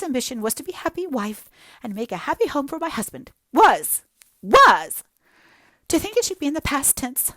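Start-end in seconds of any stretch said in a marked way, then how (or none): 3.5-4.0 a much louder wail on Was!; anguished cry. Acted. Hazel's anguished outburst. 4.4-5.0 anguished cry echoed. Acted. Hazel repeats the cry.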